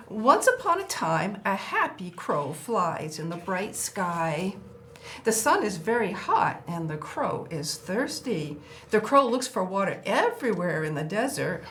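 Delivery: lively storybook read-aloud; reading to children. Acted. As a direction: read it like a picture book for a small child. Reads crow book to child.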